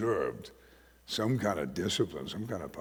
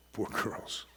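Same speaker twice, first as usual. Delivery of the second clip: pitying whisper; 6 dB quieter than usual. Real, not acted. Repeated in a whisper.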